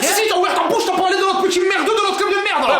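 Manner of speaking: outraged accusation. Acted. Son shouting at dad for praising the rival club. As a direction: call him out angrily.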